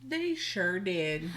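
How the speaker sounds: slow, drawled Southern affirmation; a hint of Southern twang, drawn out; mock Southern accent. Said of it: "we're doing a real bad job of doing a Southern accent".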